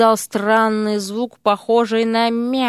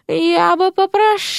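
high, prim offended snake voice; 10 semitones higher than usual. A narrator's reading. Серпентина rebukes the chubby man, offended. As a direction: bristle with disdain. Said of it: "скривилась".

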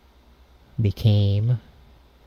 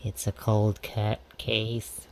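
soft, close to the phone; quiet; 8 dB quieter than usual. Acted. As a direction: drop the voice down. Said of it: "If I talk like this".

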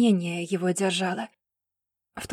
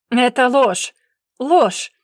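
loud, higher yelled lie; furious shout; 4 semitones higher, 8 dB louder, much slower than usual. Acted. Anatoly losing control at the accusation, furious shout. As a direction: explode with rage. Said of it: "вышел из себя".

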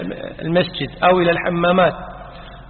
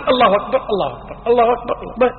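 hurried takbirs; 5 semitones higher, much faster than usual. Shown as a demonstration. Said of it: "مضطر".

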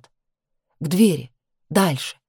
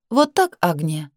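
cold. Acted. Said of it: "Холодно предупредила она".

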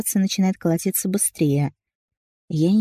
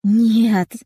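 higher, louder panicked no; almost shout it at them; wife nearly screaming at the brothers; 4 semitones higher, 6 dB louder than usual. A narrator's reading. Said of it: "Я почти закричала".

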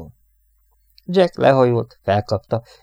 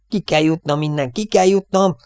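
high cries, climbing higher and louder; hysterical panic; 8 semitones higher, 4 dB louder than usual. A narrator's reading. Airman in a fit wants out of plane, panicking. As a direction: cry out desperate to escape. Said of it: "hisztériás rohamot kap".

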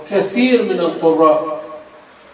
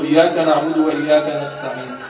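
hurried recitation. Shown as a demonstration. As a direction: rattle off "إياك نعبد وإياك نستعين" carelessly. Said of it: "للاستعجال".

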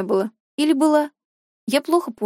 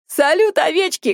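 shout; 5 semitones higher than usual. Acted. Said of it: "кричит Чижевич".

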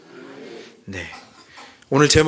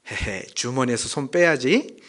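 Jeolla dialect; 3 semitones lower than usual. Acted. Preacher imitating a comedy sketch for the congregation, Jeolla dialect. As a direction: put on a mild Jeolla dialect. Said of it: "전라도 사투리로 하면".

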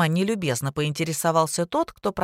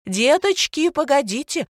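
much higher, louder anxious call; flustered call; 9 semitones higher, 4 dB louder than usual. Acted. The old teacher calling pupils back at the bell, flustered and high. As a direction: flutter after the kids as they bolt. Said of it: "заволновалась Варвара Михайловна".

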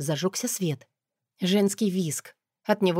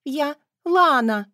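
high, loud, tearful insistence; high sobbing young woman; sobbing cry; 7 semitones higher, 5 dB louder, slower than usual. A narrator's reading. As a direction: cry out her name, near tears. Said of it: "всхлипнула девушка".

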